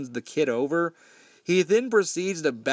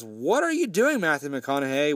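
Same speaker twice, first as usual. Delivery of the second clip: freaked out. Retold or imitated. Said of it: "Sean is freaked the fuck out".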